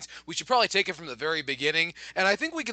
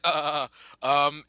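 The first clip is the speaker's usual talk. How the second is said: slight stutter; 4 semitones lower than usual. Retold or imitated. Imitating the nervous keynote presenters, slight stutter. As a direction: stall on filler sounds, imitating nervous hesitation. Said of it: "like, a slight stutter".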